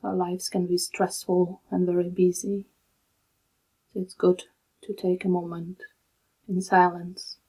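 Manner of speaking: calm, unhurried meditation guide with long pauses; soothing, even delivery in short, spaced-out phrases; guided meditation. Real, not acted. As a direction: guide them gently into stillness, leaving long silences.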